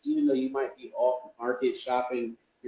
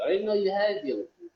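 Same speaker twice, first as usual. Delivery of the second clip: mock surprise; 4 semitones higher, much faster than usual. Mock surprised reply to himself.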